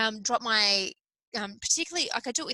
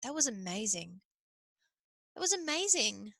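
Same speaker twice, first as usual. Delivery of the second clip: content reflection; 4 semitones lower, 6 dB quieter than usual. Pretend. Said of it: "get to the end of your life and be like".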